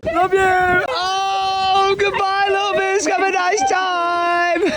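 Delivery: high, loud affectionate farewell; fond goodbye. Real, not acted. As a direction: send the little one off lovingly. Saying goodbye to the baby.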